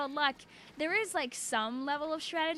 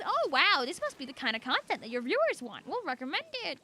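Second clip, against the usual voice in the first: mock algo voice. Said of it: "So the algo thinks".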